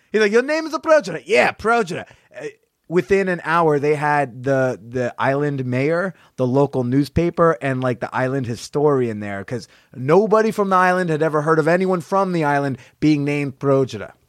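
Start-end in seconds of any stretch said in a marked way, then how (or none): 0.3-1.2 put-on very high, clichéd, stereotypical Italian waiter accent. Retelling a waiter reading the customer's name off his card: stereotypical italian accent. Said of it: "Very stereotypical Italian accent".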